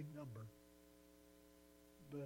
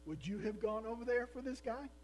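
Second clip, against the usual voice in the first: preaching challenge; 8 semitones higher, 6 dB louder than usual. Acted.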